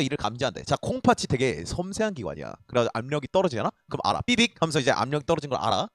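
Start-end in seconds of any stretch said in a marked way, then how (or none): 4.2-4.6 quick two-syllable beep noise; mimicked alarm beep; imitated warning beep. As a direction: voice a little sensor alert.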